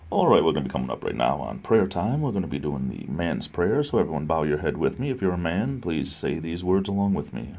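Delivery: low, soft radio DJ delivery. Acted. Streamer leads the man's prayer on request, low DJ voice. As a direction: announce it low and smooth like a late DJ. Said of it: "Do the man's prayer in your D J voice".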